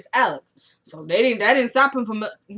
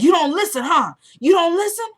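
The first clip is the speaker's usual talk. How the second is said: higher and louder, a retold menacing taunt; mock threat; 9 semitones higher, 6 dB louder than usual. Rusty taunting Randall as he squirms toward the baby, mock menace. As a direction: needle him, rising louder with each line.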